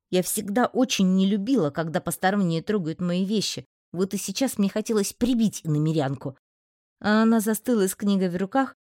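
plain reading voice

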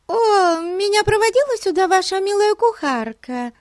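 very high, loud, gushing chatter; chattering affected voice. A narrator's reading. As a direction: rattle it off in a simpering rush. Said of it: "затрещала в ответ гостья".

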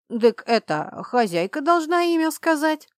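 a hint of a creaky old house spirit; lightly voiced creaky little old man. A narrator's reading. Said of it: "скрипучим голосом ответил домовой".

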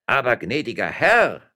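high, loud beseeching protest; pleading. A narrator's reading. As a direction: beg your master for mercy. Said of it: "in die Knie sinkend ein".

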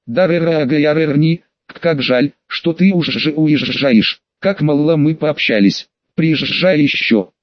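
put-on slow, slurred drunk speech; barely moving the tongue, drunk; drunk slurring. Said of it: "еле ворочая языком". (пьяная невнятная речь)

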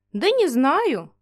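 slow, unbothered reply; calm. Acted. Old mage explains why he kept the dragon, slow calm reply. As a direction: shrug it off calmly. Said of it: "спокойно ответил маг".

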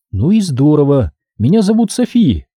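a businesslike woman explaining the job; woman worker. Acted. Sophie voiced.

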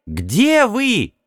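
high, eager female voice; excited woman. A narrator's reading. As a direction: call out hopefully.

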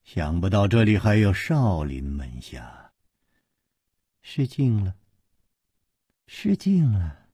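low, measured menacing voice; mock politeness, slowly; slow sinister drawl. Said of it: "缓缓地说".

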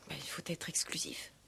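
barely voiced confession; whispered. Fiancée admitting jealousy to the commissaire, whispered. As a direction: murmur it under the breath. Intimate admission.

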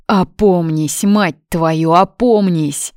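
loud, slow, swearing outburst; furious yell. Acted. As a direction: shout him back to his senses. Inner voice raging at him.

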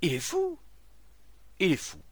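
loud, high alarmed shout; short, urgent outcries; crowd repeating cry. Acted. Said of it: "répétèrent".

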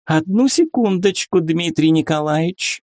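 high, sugary coo; honeyed cooing. A narrator's reading. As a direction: coo sweetly to stall the visitor. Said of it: "проворковала Катя медоточивым голосом".

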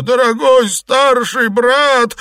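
high, slow, loud wail. Acted. Xuepan wails at Liu Xianglian as he is punched. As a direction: howl it out under the blows. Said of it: "завопил Сюэпань".

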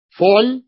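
فعل as fu'ul, u in both syllables; u on middle letter. Shown as a demonstration. Teacher recites the third pattern, fu'ul. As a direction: say فعل with u then u. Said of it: "العين مضمومة".

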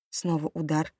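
usual speaking voice

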